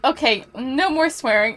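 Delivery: a stern line broken up by laughter; laughing while scolding. Real, not acted. Teacher telling students to stop swearing, through laughter. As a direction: try to scold but can't stop laughing. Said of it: "I'm saying this while I'm laughing".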